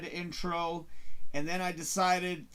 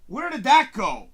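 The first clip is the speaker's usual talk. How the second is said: drawn-out "whoa", then a louder question; bewildered; 5 dB louder, much slower than usual. Retold or imitated. Viewer as the story falls apart, bewildered whoa. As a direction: sound lost and let down.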